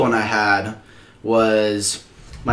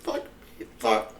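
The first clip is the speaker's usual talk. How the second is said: retold hushed cursing under the breath; small, soft oh-no moment; dismayed; 2 semitones lower, 11 dB quieter than usual. Prankster realizing all will get detention, dismayed.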